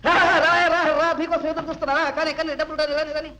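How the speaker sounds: eager beckoning. Acted. Man awaiting money calls the postman over, eager.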